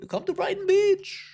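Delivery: put-on very high-pitched Jewish-accent invitation; mock Jewish accent. Inviting someone to Brighton Beach, mock Jewish accent. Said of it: "I make the Jewish accent all the time".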